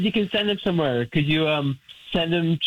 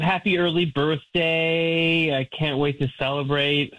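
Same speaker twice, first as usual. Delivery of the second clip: slow dictation; 4 semitones lower than usual. Real, not acted. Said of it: "just, uh, put".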